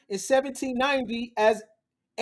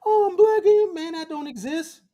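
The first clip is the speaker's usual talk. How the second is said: mocking whine; 4 semitones higher than usual. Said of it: "not created from".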